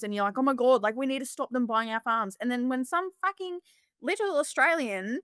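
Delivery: high, heated rant; mock-outraged tirade at critics; retold rant. Farmer ranting at online haters, heated and high. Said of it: "I was like".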